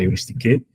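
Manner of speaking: euristike said as the Greek word; Greek pronunciation. Shown as a demonstration. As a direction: give euristike its Greek form, stressed as a foreign word. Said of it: "que se fala".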